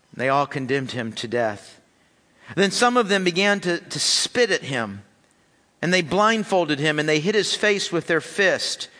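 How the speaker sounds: measured public Bible reading; scripture reading. Acted. Pastor reading Mark's passion account to the church, measured reading. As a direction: read the passage steadily to the congregation. Reads scripture passage aloud.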